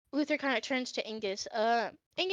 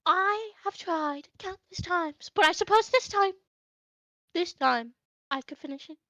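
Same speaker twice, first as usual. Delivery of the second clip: Hoshi, sheepish promise; 6 semitones higher, 5 dB louder than usual. Acted. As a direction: stretch it out like a kid swearing he'll try. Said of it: "And Hoshi goes".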